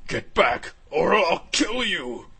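loud, drawn-out warning shout; shouted threat. Acted. Scared dragon warning off the powered-up hero, shouted threat.

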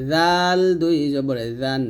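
জাল and জান said light and thin, not heavy; জাল পাতলা, light thin sound. Shown as a demonstration. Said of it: "জাল পাতলা হবে".

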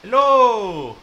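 high, loud, drawn-out call. Real, not acted. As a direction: call out to whoever might be out there. Calling out into the game world.

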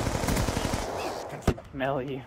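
slow, breathy creeper whisper; creepy whisper. Pretend. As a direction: whisper it slowly like a stalker. Creepy echo of the taunt.

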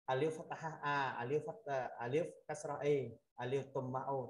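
"alif fathah A" spelled in full, final vowel lengthened; long Arabic-style reading. Shown as a demonstration. Teacher showing how Arabic reads it long, full recitation. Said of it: "Ví dụ Ả Rập thì nó đọc dài lắm".

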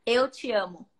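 "Eu te amo" in native Portuguese, teaching tone; Portuguese phrase. Shown as a demonstration. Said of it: "one that you can say to your fans is".

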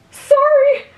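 high, loud call of sorry over the shoulder; earnest apology. Acted. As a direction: shout the apology while rushing on. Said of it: "He apologized earnestly".

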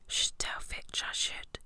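slow saintly whisper; saintly Peeves. A narrator's reading. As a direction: whisper it slowly, mock-virtuous. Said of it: "said Peeves in a saintly voice".

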